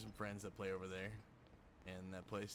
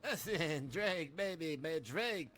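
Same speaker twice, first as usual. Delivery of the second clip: high, loud, swooping character voice; hammed-up sweet-talk, pitched way up; mock placating plea; 8 semitones higher, 7 dB louder, much slower than usual. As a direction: plead loudly in a put-on high voice. Acts out someone placating Drake.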